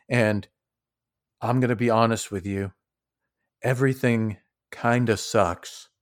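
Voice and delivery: level with them quietly and sincerely; calm, earnest Rock. Acted. Rock calms the bickering party, soft and earnest.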